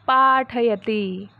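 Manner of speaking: slow, syllable by syllable; slow Sanskrit demo; slow model reading. Shown as a demonstration. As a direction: read it slowly so the class can follow. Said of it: "पठति यानी पढ़ना और पाठयति यानी पढ़ाना".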